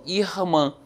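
'irmã' with the 'ir' pulled into 'ih'; drawn-out 'ir'. Shown as a demonstration. Teacher showing how she pulls the 'ir', 'irmã' said as 'ih-mã'. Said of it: "puxando o ir aí".

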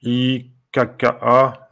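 slow letter-by-letter spelling; reading the letters one by one. Shown as a demonstration. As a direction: spell each letter out slowly. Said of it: "Là, c'est peut-être deux K et le A".

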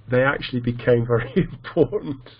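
amused, laugh breaking into the words; real chuckle mid-sentence. Real, not acted. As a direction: try to explain through a laugh. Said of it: "sorry, I'm laughing because".

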